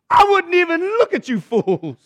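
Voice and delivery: harsh, high-pitched scolding of fools; withering prophet's put-down. Acted. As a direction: scorn them, drawing out LOOK. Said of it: "people say I'm harsh".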